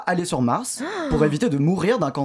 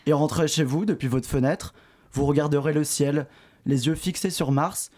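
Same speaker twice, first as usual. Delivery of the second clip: guided daydream; 3 semitones lower than usual. Acted. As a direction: lead them gently into a dream.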